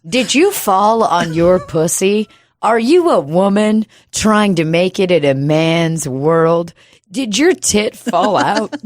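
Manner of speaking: slow, emphatic ad pitch; hammed-up, slow TV-ad questions; mock commercial. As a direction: spoof a lawyer ad, spacing out each question. Mock law firm commercial.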